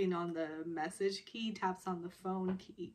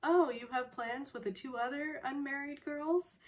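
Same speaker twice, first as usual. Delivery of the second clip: higher, rising mock query; pointed question, pitched up; calling her out; 6 semitones higher than usual. Sister calling her out on her plans, pointed questioning. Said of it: "completely calls her out".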